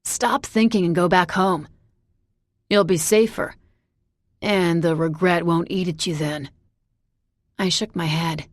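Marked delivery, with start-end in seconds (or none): 0.0-6.5 urgent plea. Acted. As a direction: push her to leave, urgently. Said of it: "he rushed out".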